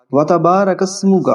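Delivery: وتبارک اسمک slow, اسمک ending in mu; correct pronunciation. Shown as a demonstration. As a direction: recite اسمک carefully with mu. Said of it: "مو کا ہے". (صحیح تلفظ اسمک)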